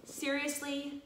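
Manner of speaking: a high, incredulous "Seriously?"; exasperated retort. Retold or imitated. Scolding the two fighting students, exasperated. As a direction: let the disbelief drag the word up. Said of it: "that's how I wanted to respond".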